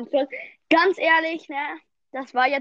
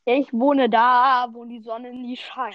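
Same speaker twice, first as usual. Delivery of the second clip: mock mournful; 4 dB louder, slower than usual. Mock lament about home.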